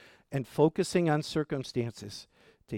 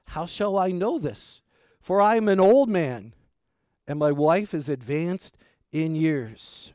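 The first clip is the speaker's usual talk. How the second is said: emphatic. Retold or imitated. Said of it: "a very emphatic statement".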